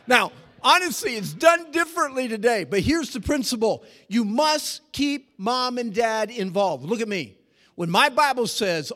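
loud, high sermon voice; full-force preaching. Acted. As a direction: drive the point home from the pulpit.

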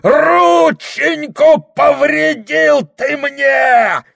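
очень высоко и громко, протяжно; завопи от боли; вопль боли. Acted. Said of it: "Дьякон завопил". (дьякон вопит о сломанных пальцах)

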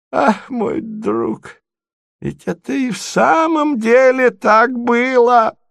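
put-on high, rapturous old prince; delighted cry. Prince to Mozglyakov, high and delighted. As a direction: burst out in delight. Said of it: "закричал князь в восторге".

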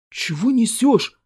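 rebuke. A narrator's reading. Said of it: "одёргивает болтуна коллега".

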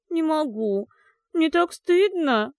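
slow, high, bubbling through water; gurgling. Acted. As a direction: gurgle it from under the bath. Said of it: "пробулькала София из воды".

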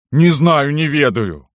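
high, loud denial by a cornered servant; helpless protest. A narrator's reading. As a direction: insist desperately that you are ignorant. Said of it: "мог только повторить Никанор". (беспомощно и отчаянно)

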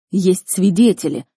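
loud, slowed indignant insistence; emphatic angry protest. Acted. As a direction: declare it in outraged emphasis. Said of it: "Родитель гневно сузил глаза".

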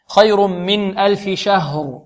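خير من ألف شهر chanted slowly; slow recitation. Shown as a demonstration. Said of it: "شهر، عندنا الشين ماذا". (ترتيل بطيء)

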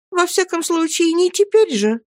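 tender, high-pitched mother's voice; gentle questioning. A narrator's reading. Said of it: "нежно продолжала допрашивать матушка". (нежно, высоким голосом)

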